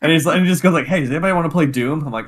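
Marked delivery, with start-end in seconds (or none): 0.9-2.0 eager, quick imitation of an excited guy; mock-eager invitation, slightly raised. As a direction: imitate someone bursting to play, talking fast. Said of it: "he was so excited about it".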